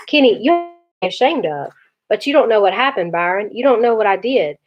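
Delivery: put-on a boy talking through his tears; crying boy pleading. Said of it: "I couldn't stop crying".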